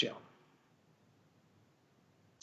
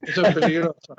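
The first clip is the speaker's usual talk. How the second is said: lo dice entre risas; riendo; 4 dB louder than usual. Real, not acted. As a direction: se le escapa la risa al advertir. Reacción riendo al locutor. (riendo, advierte al locutor que eso es peligroso)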